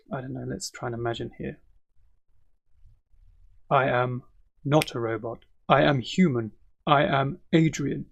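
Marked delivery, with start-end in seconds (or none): 3.7-8.1 lightly robotic, words in separated chunks; hint of a robot, pausing between phrases; mock robot. Shown as a demonstration. Teacher imagining a robot introducing himself, lightly robotic. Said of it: "sound more like a robot".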